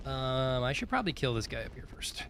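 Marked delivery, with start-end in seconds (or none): 1.1-2.2 hushed whisper while sneaking; quiet whisper near the enemy. Real, not acted. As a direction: whisper it so the enemy won't hear.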